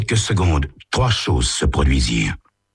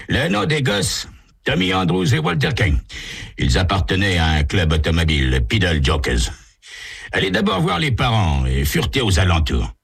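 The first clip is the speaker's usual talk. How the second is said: higher, brisk chief's voice; police chief Daniels; 4 semitones higher than usual. Acted. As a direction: hand over a case matter-of-factly. Daniels gives orders.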